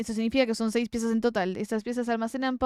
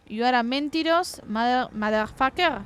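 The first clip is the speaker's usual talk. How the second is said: put-on French accent; 3 semitones higher, slower than usual. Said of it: "estoy hablando con acento francés".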